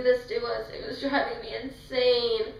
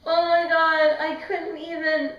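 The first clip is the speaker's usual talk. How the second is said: overwhelmed gush; 6 semitones higher, 7 dB louder than usual. Retold or imitated. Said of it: "and I was just like".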